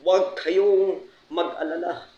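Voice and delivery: high, measured pulpit delivery; Bishop Rod Cubos preaching. Retold or imitated. Bishop telling his flock the Holy Spirit helps, imitated preaching. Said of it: "I remember him saying in his preaching".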